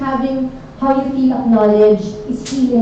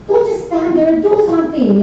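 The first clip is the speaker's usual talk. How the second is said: raised, urgent cartoon cry; 7 semitones higher than usual. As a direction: call out in a panic. Cartoon commotion shout.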